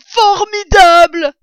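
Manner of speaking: loud, high, stretched-out cheer; delighted yell. A narrator's reading. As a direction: holler it slowly with joy. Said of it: "hurla Blaireau". (hurlement de joie, aigu et traînant)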